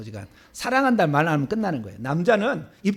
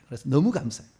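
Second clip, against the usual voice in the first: ordinary talk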